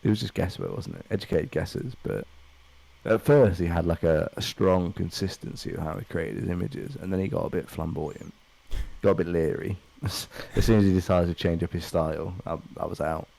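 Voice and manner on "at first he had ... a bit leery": a hint of a pretentious art critic; languid pretentious art snob. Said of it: "You sound just like an art critic".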